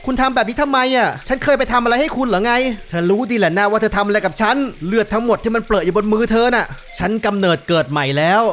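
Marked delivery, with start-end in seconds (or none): 1.3-8.4 lightly acted accusing confrontation; a hint of drama, ending in farewell; game character confronting someone. Voices game dialogue. (พากย์ตัวละครเผชิญหน้าแบบดราม่าเบาๆ)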